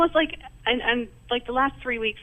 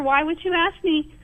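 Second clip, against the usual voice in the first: higher and louder, challenging her; retold indignant question; 5 semitones higher, 5 dB louder than usual. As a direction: confront a friend, pitch up and push. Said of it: "so today I asked her".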